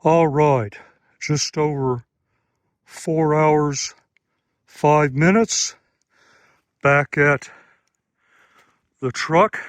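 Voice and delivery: panting after the uphill run; breathless, gasping between words; out of breath. Real, not acted. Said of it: "until I'm out of breath".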